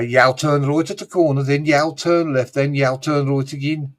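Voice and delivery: light Black Country vowels, right said like roit; Black Country directions, "right" as "roit"; Black Country accent. Shown as a demonstration. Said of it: "more of a black country accent".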